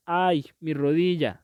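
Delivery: slow "ay" as a demonstration of pain; acted pain. Shown as a demonstration. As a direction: draw out a mock cry of pain. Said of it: "qué tanto dolor sentimos".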